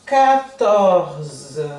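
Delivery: quatorze slow, ending on Z; French quatorze. Shown as a demonstration. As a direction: draw out quatorze, no final vowel. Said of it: "falando tudo igual que em português". (quatorze em francês)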